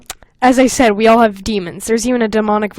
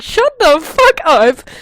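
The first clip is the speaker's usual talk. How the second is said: mock snap; 6 semitones higher, 6 dB louder, much slower than usual. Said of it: "I was like".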